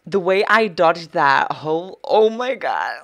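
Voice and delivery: loud, high amazed outburst; real excitement, voice leaping up; thrilled boasting. Real, not acted. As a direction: crow loudly over your own dodge. Thrilled at her own dodge.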